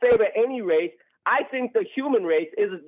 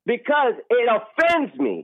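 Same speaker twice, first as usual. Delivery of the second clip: slow, indignant protest; real, slow-burning indignation; upset; slower than usual. Real, not acted. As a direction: bite down on each word in offense. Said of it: "why are you so upset about it".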